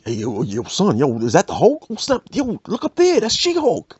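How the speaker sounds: hyped-up street guy spotting the Hulk; Bronx instigator. Acted.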